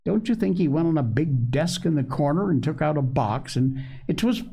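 put-on high-pitched child telling his tale; small boy Joel, eager. A narrator's reading.

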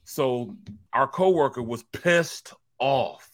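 usual speaking voice

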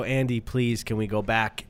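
low, soft, worn-down plea; dejected pleading. Retold or imitated. Hosts begging Andy to get back on track, dejected. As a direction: sink the voice as if giving up. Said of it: "We would sink our head down".

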